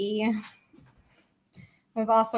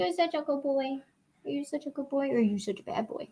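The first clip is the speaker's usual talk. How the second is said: talking to a pet; 2 semitones higher, 8 dB quieter than usual. Real, not acted. Cooing at the pet.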